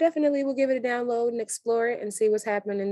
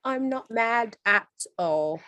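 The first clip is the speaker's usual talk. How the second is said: excited; 7 semitones higher, 6 dB louder than usual. Real, not acted. Gleeful approval of milking moment.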